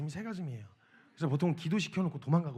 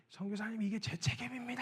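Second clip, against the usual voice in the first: sobbing confession; 4 semitones higher, 7 dB quieter than usual. Retold or imitated. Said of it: "엉엉 우시더니".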